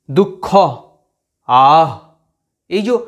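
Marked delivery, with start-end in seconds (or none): 1.5-1.9 আহ pushed out loud as a breath from deep in the throat; breathy throat h. Shown as a demonstration. Teacher shows students the throaty breath of হ. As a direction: let the air rush out from the throat on আহ. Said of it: "ওটা একদম গলার দেখো ভিতর থেকে".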